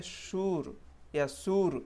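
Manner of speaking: "शूर या सूर" as one long u with a hard r; wrong pronunciation. Shown as a demonstration. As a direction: demonstrate the learner error. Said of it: "तो ये wrong है actually". (गलत उच्चारण, लंबा ऊ और र)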